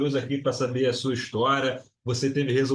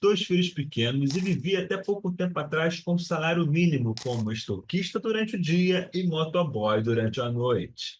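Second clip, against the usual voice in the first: dramatic teaser voiceover. Acted. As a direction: sell the success story like a trailer. Dramatic teaser intro read.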